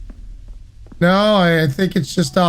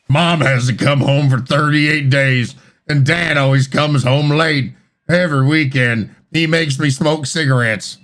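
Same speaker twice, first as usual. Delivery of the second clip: creepy deadpan reading; 4 semitones lower than usual. Pretend. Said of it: "Read it like".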